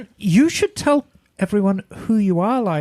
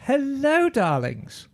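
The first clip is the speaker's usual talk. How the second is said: breathy vintage purr; 5 semitones higher, 4 dB quieter, slower than usual. Pretend. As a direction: purr it like a film star. Diva greeting.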